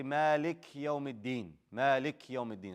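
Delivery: "مالك" ends on a bare k, run quickly into "يوم"; dropped kasra. Shown as a demonstration. Teacher shows students the common mistake, kasra dropped. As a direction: say "مالك يوم الدين" fast, no vowel after the k. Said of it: "It's very common that people say".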